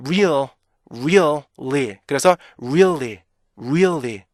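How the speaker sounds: "really" as ree-ul-lee, glide then fall; rounded rise and fall on "really"; native-reader REALLY. Shown as a demonstration. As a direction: keep a hidden beat inside "really". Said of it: "이렇게 읽게 돼요".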